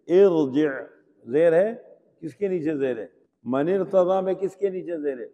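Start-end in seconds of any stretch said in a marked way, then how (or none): 0.1-0.7 ارجع recited loud, r held full; heavy r. Shown as a demonstration. Teacher repeats example for students, loud heavy r. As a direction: say ارجع as "irji'" with thick r. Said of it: "موٹا پڑھتے ہیں".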